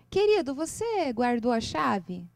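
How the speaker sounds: slow, tender "Querido, você guardou a chave?", stress on "querido"; gentle question. Shown as a demonstration. Wife gently asking her husband about the key, slow and tender. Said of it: "Essas nuances".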